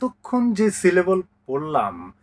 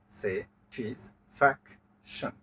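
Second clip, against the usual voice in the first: "স্যাটিসফ্যাকশন" slow, low and softer, in four separated parts; split into syllables; 4 semitones lower, 6 dB quieter, much slower than usual. Shown as a demonstration. Teacher counting four syllables, "স্যাটিসফ্যাকশন" slowly split with pauses. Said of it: "চারটা পাওয়া গেছে".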